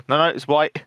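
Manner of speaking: "white" said like "what"; imitating a South African; South African accent. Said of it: "It's like".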